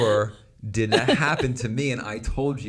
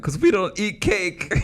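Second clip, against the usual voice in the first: put-on higher, earnest little kid voice; child voice; 12 semitones higher than usual. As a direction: innocent child explaining. Child self, laughing.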